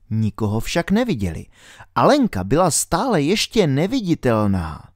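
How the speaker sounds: ordinary delivery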